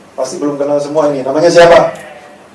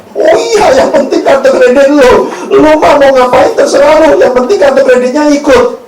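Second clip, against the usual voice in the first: high, loud, dismissive put-on voice; mock gold-digger girlfriend; 8 semitones higher, 7 dB louder than usual. Preacher acting a partner who only loves the credit card, mock high voice. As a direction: play the greedy partner, loud and flippant.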